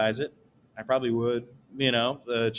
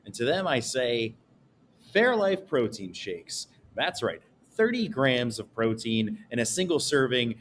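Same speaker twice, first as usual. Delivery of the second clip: mock ad read. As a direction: read it like a TV commercial. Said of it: "that is what an ad would look like".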